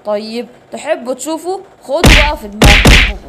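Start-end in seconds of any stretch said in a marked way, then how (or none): 1.8-3.2 battle shout. Acted. Hero strikes the hyenas.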